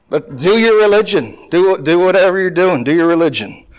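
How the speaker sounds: sarcastic go-ahead. Acted. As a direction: egg them on with mock approval. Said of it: "this is all sarcasm".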